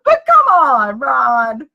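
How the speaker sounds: high, loud laughing exclamation; giggling protest. Real, not acted. Host protesting to absent Ron, still giggling. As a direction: protest through helpless laughter, drawing it out. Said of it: "I'm still giggling".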